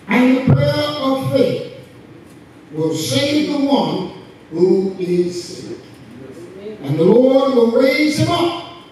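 slow, measured reading with big pauses; scripture reading. Acted. Preacher reads scripture to the congregation, solemn proclamation. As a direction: proclaim each phrase deliberately to the room.

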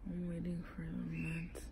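hurting, whispering through a sore mouth; barely voiced, in real pain. Real, not acted. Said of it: "Hurts really bad".

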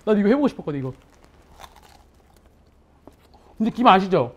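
talking while munching crisp seaweed; crunching seaweed. Real, not acted. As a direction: mouth full of crunchy laver. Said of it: "그다음에 한번 먹어볼게요".

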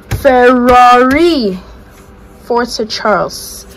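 mock Italian fan accent, stretching Ferrari. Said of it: "I have to do the Italian accent".

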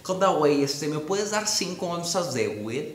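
soft, drawn-out fresa voice; fresa caricature. Acted. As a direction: ask politely like a laid-back fresa. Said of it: "weed sí suena muy fresa".

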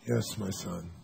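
low, soft solemn pronouncement; lofty Jesus voice. Retold or imitated. Patient who believes he is Jesus answering solemnly. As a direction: bless him like a messiah. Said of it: "he goes in state and goes".

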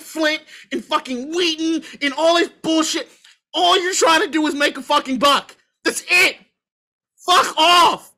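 emotional rant to the team owners, spat out angrily; emotional outburst. Real, not acted. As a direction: let the frustration boil over into the last words. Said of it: "I know I'm emotional right now".

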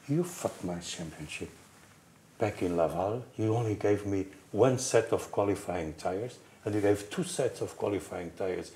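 retold reproach, kept soft and contained; really upset. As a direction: play a quiet, upset accusation. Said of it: "he gets really upset".

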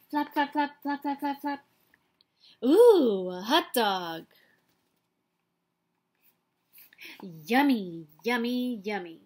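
a lightly voiced, eager pigeon flapping and drooling; excited pigeon. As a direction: flap in, gasp, then savour the yummies. Pigeon flapping, spots hot dog.

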